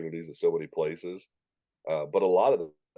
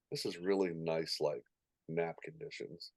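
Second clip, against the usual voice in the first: hushed and trailing softer; drowsy contentment; 10 dB quieter than usual. Retold or imitated. Announcer lulled by a hushed crowd, quiet contentment. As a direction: settle softly into a peaceful lull. Acting out lull during peaceful hush.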